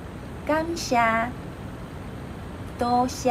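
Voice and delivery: "感谢" then "多谢" slowly in Taiwanese; Taiwanese thanks. Shown as a demonstration. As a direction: say "多谢" slow and clear. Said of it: "we usually say thanks".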